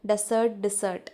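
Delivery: ഡെസേർട്ട് then ഡിസേർട്ട്, first vowel changed from e to i; teacher showing ഡെസേർട്ട് and ഡിസേർട്ട് side by side; two pronunciations. Shown as a demonstration. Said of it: "രണ്ട് പ്രൊനൗൺസിയേഷനാണ്".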